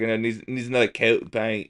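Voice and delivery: a hint of a New York accent on another coat; retold painting line in light New York accent. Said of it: "what about when we were painting".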